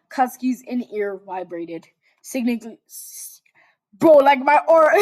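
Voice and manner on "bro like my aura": loud, higher bragging cry; boastful excited. Real, not acted. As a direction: show off, then laugh. Bragging joke to chat.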